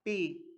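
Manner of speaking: "पी" with a plain unaspirated p; "पी" as a clean p sound, not f; British-style P. Shown as a demonstration. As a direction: say "पी" crisply, no puff of air. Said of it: "English के according pronounce करते हैं पी".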